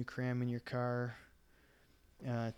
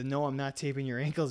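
normal talking voice

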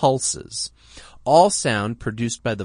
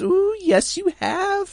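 put-on very high, drawn-out, slow baby-talk falsetto. Showing the falsetto register, as people talk to babies: falsetto voice. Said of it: "I'll try to do it".

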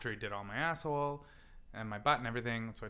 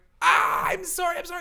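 acted-out yell of pain, much higher and louder; 14 dB louder than usual. Retelling a painful waxing, the speaker acts out apologizing, retelling a pained yell. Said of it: "but also yelling".

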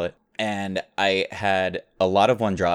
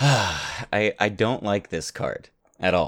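sighing with emotion. Answering a question about a card: sighing with emotion. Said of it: "I like that sigh".

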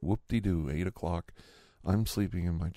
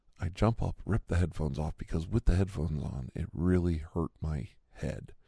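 ordinary talk, nothing marked

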